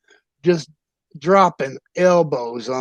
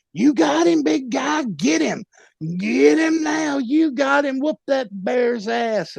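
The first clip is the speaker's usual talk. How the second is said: much higher, frantic yelled encouragement; hyped-up cheering; 11 semitones higher than usual. Retold or imitated. Corner man yelling at his fighter, much higher frantic cheer. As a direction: scream him on like a wild corner man. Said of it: "Noodle, is just hyping it up".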